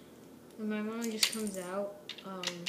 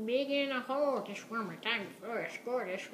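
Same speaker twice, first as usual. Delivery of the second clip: a hint of an old man voice; lightly voiced old man. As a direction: put on a faint old man voice, Tobuscus style. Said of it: "talking in an old voice like Tobuscus".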